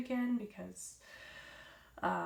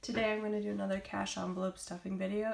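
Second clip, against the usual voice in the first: raspy voice. Real, not acted. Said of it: "raspy voice".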